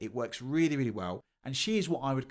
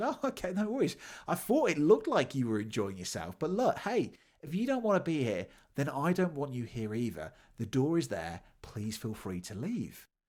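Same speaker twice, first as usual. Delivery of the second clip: put-on calm, unemotional sarcasm with swooping pitch; 3 semitones higher than usual. Retelling own reply to disruptive learners: retelling own sarcastic reply. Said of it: "I replied in a sarcasm, uh, way".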